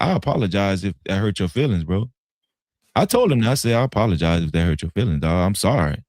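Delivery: low, subdued apology; retold sincere apology. Retold apology to upset friend.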